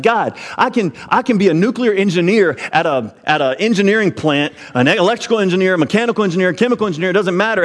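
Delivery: high-pitched pleading protest, words tumbling out; protesting to God. Retold or imitated. Former sailor pleading with God against a janitor job, high and protesting.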